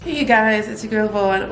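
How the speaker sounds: ordinary talk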